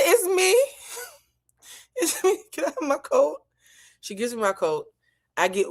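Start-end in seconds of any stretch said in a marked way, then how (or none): 0.0-3.4 tiny, very high mock-helpless voice; pitiful plea. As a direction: squeak it out like a comically helpless victim. Pitiful plea when finally found.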